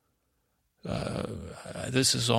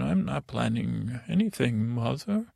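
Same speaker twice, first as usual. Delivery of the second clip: very high voice. Retold or imitated. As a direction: pitch jumping up towards the end. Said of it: "My voice get very high".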